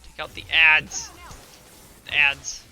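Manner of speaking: slow, loud yelled order; shouting. Real, not acted. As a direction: bellow it over the fight. Repeated order, yelling.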